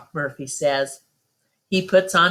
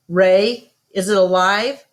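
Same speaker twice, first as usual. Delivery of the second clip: raised voice carrying across the yard; calling out; 2 semitones higher, 5 dB louder than usual. Acted. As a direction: call out to Ray from the doorway. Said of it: "she calls out".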